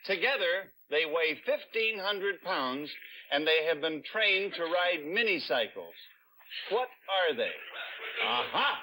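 upbeat quiz host delivery; game show host. Acted. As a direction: read the question like a TV host. Host reads quiz question.

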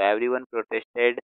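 every word spaced out for writing; slow dictation. Shown as a demonstration. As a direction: read slowly so the class can copy. Teacher repeats sentence for writing. (धीमे-धीमे लिखवाना)

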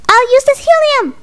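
mock villain cry. Villain announces gadget.

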